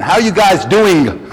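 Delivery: slow, every sound of doing spelled out; careful g on doing. Retold or imitated. Valet imitating his new careful greeting, slow. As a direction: land hard on the g of doing. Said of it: "So I started saying".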